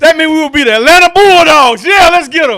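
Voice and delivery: loud, high, tipsy cheer. Real, not acted. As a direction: shout it out like you've had a few too many. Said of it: a drunk version of the speaker "is at the show".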